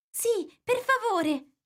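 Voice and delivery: pleading. A narrator's reading. Alice begs the dormouse for a story, slow and pleading. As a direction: beg him gently, drawn out. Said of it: "lo pregò Alice".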